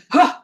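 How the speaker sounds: imitated indignant huff; huffy "huh". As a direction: puff out a mock offended huh. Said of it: "in a huff, kind of like".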